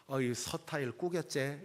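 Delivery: Gyeongsang dialect with 서타일 said as seo-ta-il and 꾸겼제 with a tense kk; preacher showing how Gyeongsang people say it; Gyeongsang accent. Shown as a demonstration. 경상도 사투리로. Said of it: "이렇게 얘기하거든요".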